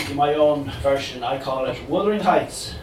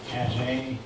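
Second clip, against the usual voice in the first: put-on dodgy Cork accent; 3 semitones lower, 6 dB quieter than usual. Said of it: "delivered in a dodgy Cork accent".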